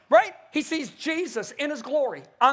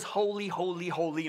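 low, soft recital; understated, sleepy hymn words; yawn-inducing hymn; 5 semitones lower, 6 dB quieter than usual. Retold or imitated. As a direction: say it low and quiet, like a tired congregation. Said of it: "people yawn when they sing it".

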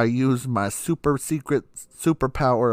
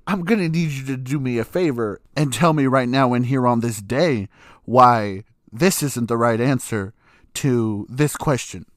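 pissed demand. Retold or imitated. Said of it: "I'm pissed".

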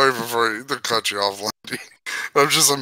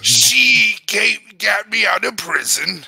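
lightly put-on alien voice; Watto; 5 semitones higher than usual. Watto telling of his prison rescue, lightly put-on voice. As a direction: finish the tale as a cartoon alien. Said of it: "the Watto voice is very fun to do".

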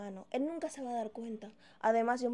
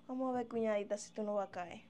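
sly scheming aside; 4 semitones lower, 5 dB quieter than usual. Acted. Scheming alone after husband leaves.

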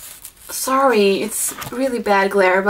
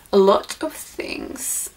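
quiet breathy-sounding silly voice, softer and slower; silly put-on voice; 4 semitones lower, 4 dB quieter, slower than usual. Shown as a demonstration. Vlogger unboxing gifts, slipping into a silly voice. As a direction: drop into a goofy whispery voice on a whim. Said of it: "I don't know why I did that voice".

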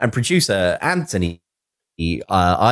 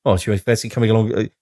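put-on quick, lightly done Australian accent; a throwaway bad Australian accent; 2 semitones lower, faster than usual. Podcaster imitating Hemmings inviting a mate, mock Australian accent. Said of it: "I don't know why I went Australian then".

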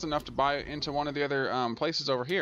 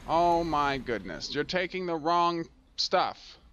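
exasperated; 4 semitones higher, slower than usual. Real, not acted. Exasperated at the game's mistake.

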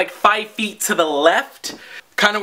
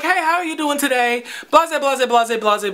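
higher, sing-song customer-service hello; imitated friendly greeting; 4 semitones higher than usual. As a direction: mimic a cashier being nice. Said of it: "she was very nice".

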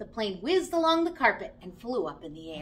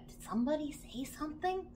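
muffled voice; 4 semitones higher, 8 dB quieter than usual. Acted. Old Bear calls from hiding.

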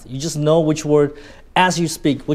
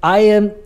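"I am" raised, loud and drawn out; emphasized words; 5 semitones higher, 5 dB louder than usual. Shown as a demonstration. Teacher showing keyword emphasis, "I am" loud and high. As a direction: punch and stretch "I am". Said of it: "emphasizing certain keywords in my".

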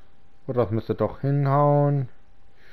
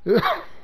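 small cough; 6 semitones higher than usual. Real, not acted. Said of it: "Verzeihung, kleiner Husten".

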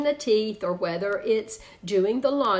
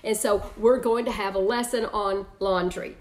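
calm parent. Shown as a demonstration. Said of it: "here's how it may sound with the laundry".

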